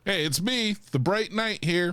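lightly voiced showy Batman; cheesy hero voice. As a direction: play a hero rebranding himself. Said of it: "mocking Batman greeting press".

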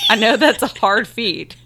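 whispered through laughter; laughing whisper. Real, not acted. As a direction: giggle the words under your breath. Teasing her co-host, laughing.

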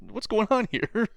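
very high, slow incredulous; mock bewilderment. Reacting to the comic's tone, high slow disbelief. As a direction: drag it out in disbelief. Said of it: "I'm like".

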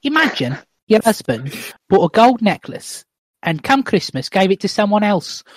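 lightly voiced wronged wife; female character voice. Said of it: "read it out in two different voices".

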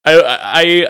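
normal talking voice

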